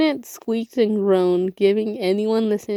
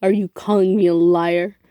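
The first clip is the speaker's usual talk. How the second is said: angry; 5 dB louder than usual. Acted. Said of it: "Megatron roared".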